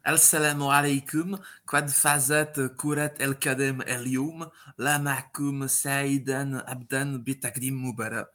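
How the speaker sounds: slow, measured greeting in Arabic; deliberate Arabic-accented announcement. Pretend. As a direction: recite a prepared Arabic introduction slowly. Prepared intro in Arabic.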